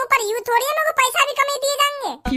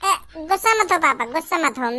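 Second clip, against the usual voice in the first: placating; 6 semitones lower than usual. Acted. Son calming his angry father, lower soothing plea.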